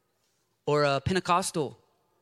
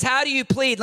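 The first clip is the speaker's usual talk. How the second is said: booming voice of the judge; judge's question; 10 semitones higher, 6 dB louder than usual. Acted. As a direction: ask it like God on the throne. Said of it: "And he says".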